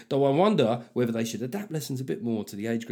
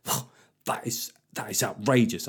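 put-on comic outraged boy; 2 semitones lower than usual. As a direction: drag out the shocked whoa. Son's outraged reaction, comical.

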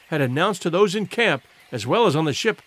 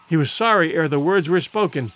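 ordinary delivery, nothing marked

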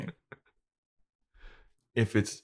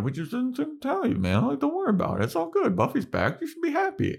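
Xander voice; faster than usual. Retold or imitated. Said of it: "And Xander's like".

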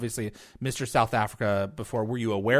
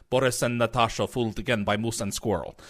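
put-on Eastern European accent. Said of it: "the Eastern European accents".

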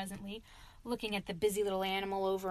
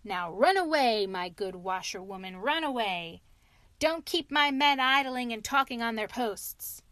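curt order; 5 dB louder than usual. Retold or imitated. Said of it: "he said to me very short".

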